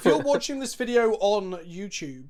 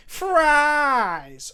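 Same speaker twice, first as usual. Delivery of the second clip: higher, louder, drawn-out call; loud exclaimed; 7 semitones higher, 6 dB louder than usual. Shown as a demonstration. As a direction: proclaim it like a jolly shout. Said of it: "I want to say fries in a Santa Claus way".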